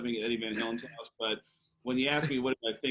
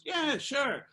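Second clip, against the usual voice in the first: imitating Mick; 12 semitones higher than usual. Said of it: "And he goes".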